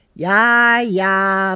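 papa grumbling. Acted. Busy papa grumbling at Ricky, low and offhand. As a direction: brush the kid off with a low grumble. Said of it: "bromt papa".

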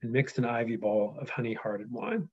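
measured epic read; steady reading-aloud voice. Acted. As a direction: read it out like a storyteller.

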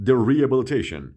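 The rehabilitation said "ree-e-bilitation"; silent H. Shown as a demonstration. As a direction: model The rehabilitation, leaving out the H. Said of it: "دیگه اچ تلفظ نمیشه". (تلفظ The rehabilitation بدون صدای «ه»)

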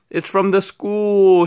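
high, slow, loud panicked shriek. A narrator's reading. Woman rushing past the bear, shrieking. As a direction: shriek it in fright. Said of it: "she shrieked".

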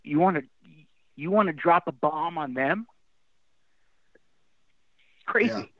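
halting, with long emotional pauses; getting emotional. Real, not acted. Dad repeating his question to his son, choked up. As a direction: struggle to get the words out, genuinely moved. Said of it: "I get emotional thinking about it".

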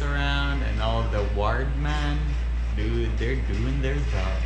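muffled speech through a mask; through a face mask. Real, not acted. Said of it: "I hope you can hear me through my mask".

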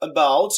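about with weight on BOUT; short a, strong BOUT in about; second-syllable stress. Shown as a demonstration. Teacher introducing the second example, emphatic. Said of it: "দ্বিতীয় সিলেবলটাকে stress দেওয়া হয়েছে".

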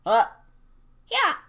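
loud, high cheering whoops; wild whooping. Acted. Dollar store weed skit, hollering to nobody in wild triumph. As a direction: whoop it like a victory shout.

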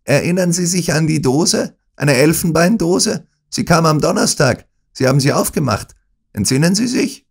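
loud, high pressing shout; villain shouting questions at the dying Holmes. Acted. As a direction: hammer the questions at him. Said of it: "schrie er".

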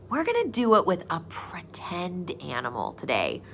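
soft secret whisper to the class. Acted. Teacher whispering a secret to young viewers.

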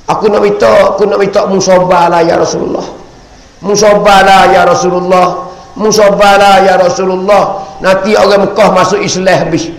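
urgent plea, pitch climbing as it goes; pleading apology. Acted. Dying Khadijah begs the Prophet's forgiveness, pleading. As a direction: beg insistently, voice rising into an impassioned appeal. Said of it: "Dia duduk royak, dia minta maaf".

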